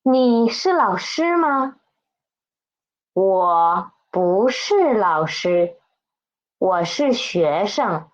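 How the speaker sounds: careful, measured Mandarin model reading. Shown as a demonstration. Teacher reads the text once for the class, model reading. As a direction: read out each sentence distinctly for learners. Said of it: "pay attention to the pronunciations".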